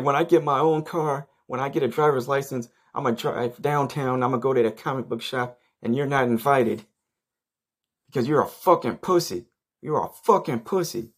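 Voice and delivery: high whiny tantrum rant; mocking tantrum. Friend ranting he won't invite him, high whiny tantrum. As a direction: whine it like a sulking kid throwing a fit. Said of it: "temper tantrum".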